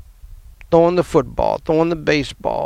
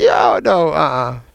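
upset protest. Retold or imitated. Refusing the news.

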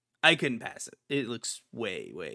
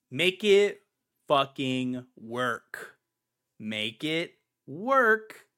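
exasperated demand; much slower than usual. Real, not acted. Demanding the company fix its store, angry. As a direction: spit it out, fed up with them.

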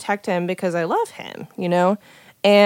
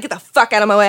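louder, mildly heated demand; retold erratic anger; 5 dB louder, faster than usual. Telling friends how they shouted at him to move, mildly heated. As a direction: act out an angry order, part-strength. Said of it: "I was erratic".

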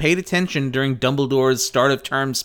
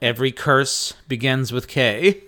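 jingle announcer voice. Pretend. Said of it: "That was very good".

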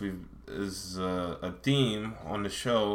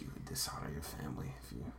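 stern dad; 5 semitones lower, 15 dB quieter, faster than usual. Retold or imitated. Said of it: "Your dad's like".

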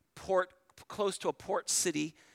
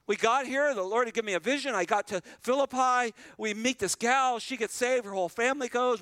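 excited Paul; 4 semitones higher than usual. Retold or imitated. Preacher voicing Paul to the congregation, excited and higher. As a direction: speak as Paul, thrilled it's all working.

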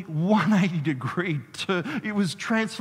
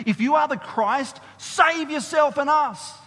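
mocking criminal; 8 semitones higher, 5 dB louder than usual. Criminal's mocking words in reading.

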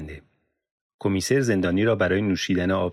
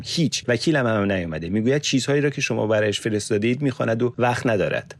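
bitter complaint; 3 semitones higher than usual. Acted. Yusuf's bitter complaint to police.

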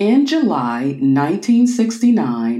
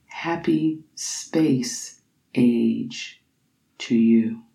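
hushed closing line; 4 semitones lower, 4 dB quieter, much slower than usual. Acted. Closing line of recited poem.

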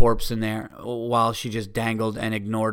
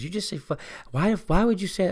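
higher-pitched imitation of an indignant woman; retold challenge, pitched up; mock confrontational; 6 semitones higher than usual. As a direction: imitate her demanding an explanation. Voices girl confronting him.

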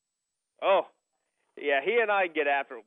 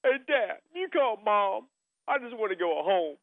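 put-on higher childlike whine, rushing at the end; kid whining; 4 semitones higher than usual. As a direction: play the bored six-year-old begging to leave.

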